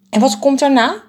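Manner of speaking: high, loud, small bird voice; anxious little bird. A narrator's reading. Anxious bird keeps asking the biggest bird what comes next, high and fretful. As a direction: pester with a high worried question.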